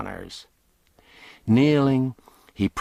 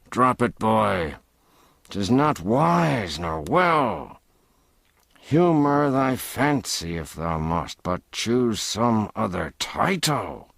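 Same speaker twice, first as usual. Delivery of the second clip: firm but good-natured; 3 semitones higher than usual. Acted. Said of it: "said firmly, but with an accent of good nature".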